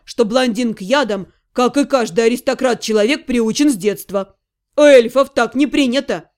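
gossiping friend. Acted. Friend explaining the poisoning to listeners, lightly voiced gossip. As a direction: explain the scandal as the one in the know.

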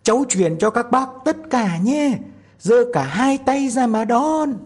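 put-on high, loud tiny-boy yell; shouting with all his might. A narrator's reading. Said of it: "lấy hết sức hét lên".

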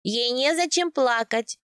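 slow, mildly surprised midwife; drawn-out, wondering reply. A narrator's reading. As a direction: answer with puzzled reassurance. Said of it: "удивлённо сказала повитуха".

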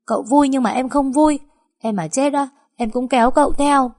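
put-on girl snapping loudly at the master over his joke; snapping shout. A narrator's reading. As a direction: yell it at him, hurt and cross. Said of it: "tôi quát lên".

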